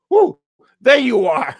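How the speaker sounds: high, loud joyful whoop of discovery; delighted whoop. Retold or imitated. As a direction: greet it like a long-lost friend, squealing high. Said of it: "I go".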